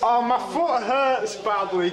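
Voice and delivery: slow, laughing through the hurt; laughing in pain. Real, not acted. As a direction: laugh it out while hurting. Foot injury, laughing.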